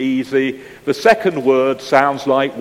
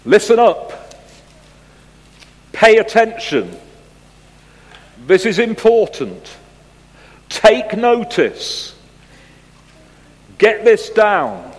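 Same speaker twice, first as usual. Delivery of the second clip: urgent call to attention; 6 semitones higher, 4 dB louder than usual. Acted. Explaining what behold means.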